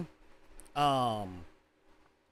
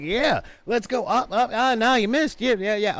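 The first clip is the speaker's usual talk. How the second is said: quick, high excited play-by-play; excited gamer chatter; 7 semitones higher, 3 dB louder than usual. Retold or imitated. Friend cheering during a game, high and excited. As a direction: cheer a friend on mid-game, laughing at the miss.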